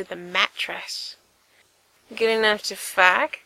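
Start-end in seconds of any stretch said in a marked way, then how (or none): 2.1-3.4 teasing. Acted. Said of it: "Gerard teased".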